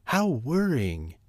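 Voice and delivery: slow, quacky worried voice; nervous quack. A narrator's reading. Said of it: "she quacked nervously".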